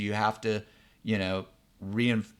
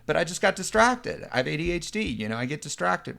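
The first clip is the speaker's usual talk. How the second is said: put-on kid explaining himself; 4 semitones higher than usual. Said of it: "he's like".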